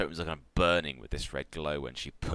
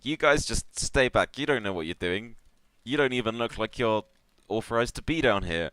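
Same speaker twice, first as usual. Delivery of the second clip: higher, louder officious engineer voice; agitated hobgoblin; 7 semitones higher, 7 dB louder than usual. Acted. Hobgoblin orders unauthorized intruders back, agitated. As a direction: warn them off in a raised, flustered voice. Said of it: "says the hobgoblin".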